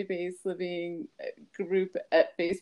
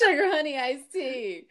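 playful exclamation; 7 semitones higher, 5 dB louder than usual. Acted. Repeating the fun curse.

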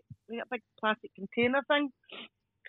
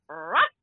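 imitated dog bark; 6 semitones lower than usual. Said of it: "I went".

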